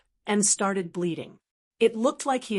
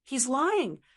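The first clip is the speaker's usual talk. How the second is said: impatient; 5 semitones higher than usual. Acted. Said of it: "It spoke impatiently".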